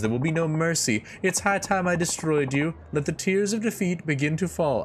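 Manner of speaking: villain message read. Acted. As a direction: declaim the threat dramatically.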